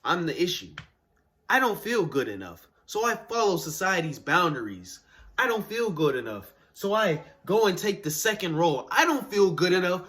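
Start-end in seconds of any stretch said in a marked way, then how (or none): 1.5-10.0 emphatic confession rising in volume and pitch; building self-blame. Acted. Monologue character admits he's the issue, building self-blame. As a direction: push each admission harder, peaking on the last.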